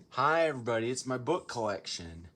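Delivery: put-on a so-so English accent, cheerfully hosting. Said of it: "I don't know how to do an English accent that".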